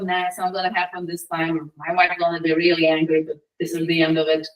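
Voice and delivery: low, defeated self-talk; subdued gloomy acceptance; resigned. Acted. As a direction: give up hope, voice sinking. Old man despairs waiting for fish.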